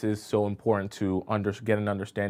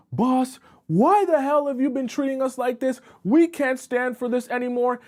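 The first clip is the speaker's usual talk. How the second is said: high, loud outburst at the boss; acted angry yelling; 13 semitones higher, 4 dB louder than usual. Coworker confronts the boss in front of the unit, high angry yelling. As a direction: yell it like you've had enough of him. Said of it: "He starts yelling".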